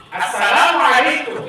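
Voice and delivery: slow, clear classroom greeting; a clear, even greeting to repeat. Shown as a demonstration. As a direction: say it plainly for the children to copy. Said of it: "Nggak boleh begini".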